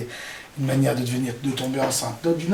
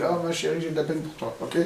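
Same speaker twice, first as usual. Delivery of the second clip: tender comfort; 6 dB quieter than usual. Shown as a demonstration. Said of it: "tu lui dis".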